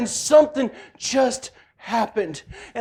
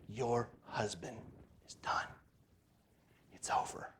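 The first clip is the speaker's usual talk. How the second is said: whispered quote; 13 semitones lower, 23 dB quieter than usual. Retold or imitated. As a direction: hush it like a secret. God's word to wife, whispered.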